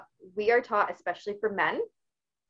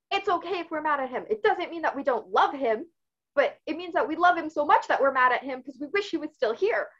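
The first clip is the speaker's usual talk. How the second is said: a mild retold outburst, higher pitched; letting everything out; 4 semitones higher than usual. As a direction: pour out feelings to the family, raised in pitch. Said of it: "I just let everything out".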